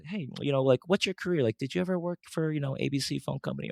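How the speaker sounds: high-pitched, casual polite inquiry; polite asking. Acted. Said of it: "politely ask him".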